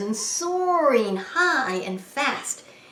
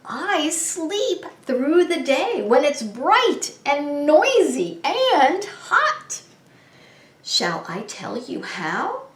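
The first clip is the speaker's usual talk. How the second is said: light owl voice, higher; kindly owl from a branch; 5 semitones higher than usual. Acted. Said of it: "said the voice from above".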